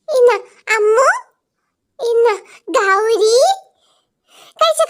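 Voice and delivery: put-on child voice comforting classmates; kind schoolkid. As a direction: hand out sweets like a sweet little kid. Top student shares candy.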